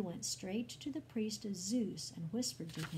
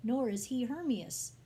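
loud, higher-pitched protest; emphatic denial; 6 semitones higher, 6 dB louder than usual. A narrator's reading. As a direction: insist forcefully to a crowd. Barnabas protests to the worshipping crowd.

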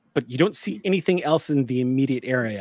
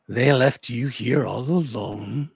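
thin growling voice; slower than usual. Acted. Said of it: "thin voice with this strange, grating, deep growling".

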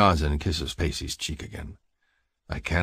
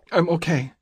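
high-pitched woman's voice, lightly choked; 12 semitones higher than usual. A narrator's reading. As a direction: get it out through a tight throat, high. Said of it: "she chokes out".

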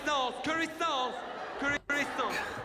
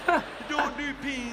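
slow, loud, exaggerated mouthing; over-enunciate as if through a window; mouthing words to a friend outside a window; talking through glass; 5 semitones higher, 5 dB louder, much slower than usual. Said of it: "You gotta talk like that through glass".

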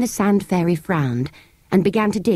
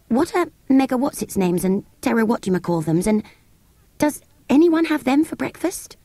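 rising higher, puzzled creature; curious sand fairy; 6 semitones higher than usual. Acted. Sand fairy puzzling over the children's words, rising high. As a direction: fumble the strange names, then ask high.

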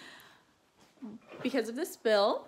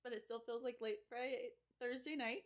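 much softer late-night voice, worn out; tired and quiet; 14 dB quieter than usual. Real, not acted. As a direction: murmur it, drained after a long drive. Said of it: "I'm too tired to wash my face".

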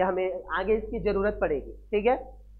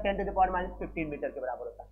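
the same value repeated lower and softer; quieter repeat; 4 semitones lower, 6 dB quieter than usual. Shown as a demonstration. Teacher repeating the fermi value to students, softer and lower. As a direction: drop the voice and restate it. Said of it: "कितना होता है?".

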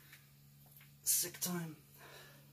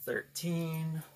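counting reps while straining; strained counting mid-workout; doing push ups; 8 dB quieter, much slower than usual. Real, not acted. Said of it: "I guess freaking out of shape".

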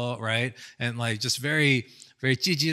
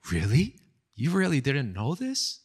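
mock disbelief. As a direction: play the rival pretending she can't believe it. Envious rival taunts main girl.

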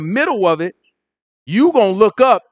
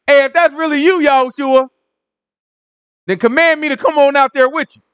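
higher, eager call to a friend; lightly voiced eager Peter; 7 semitones higher than usual. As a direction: challenge him playfully, a bit cocky. Peter calling out to Yahushua.

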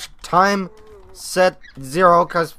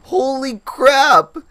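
higher, louder, drawn-out amazement; astonished; 9 semitones higher, 6 dB louder, much slower than usual. Real, not acted. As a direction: let it out in slow awe. Seeing the hatchlings.

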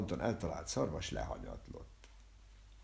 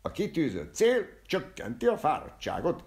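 loud, high cry of proclamation; exclaiming; 9 semitones higher, 7 dB louder than usual. A narrator's reading. Barber proclaiming at the shooting gallery, loud high exclamation. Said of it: "kiáltott fel a borbély".

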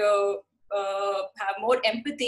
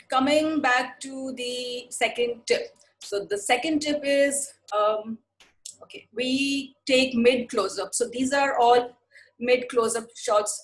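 slow, careful explaining pace; slow down for listeners to follow; deliberately slowed down; slower than usual. Real, not acted. Teacher slowing down after being told they go too fast, deliberately slowed. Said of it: "but I'll speak slowly".

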